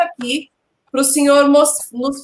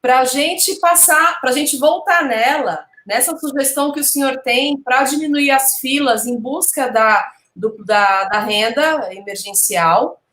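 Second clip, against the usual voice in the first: over enunciating. Real, not acted. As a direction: space out each word carefully. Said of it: "vou falar pausadamente".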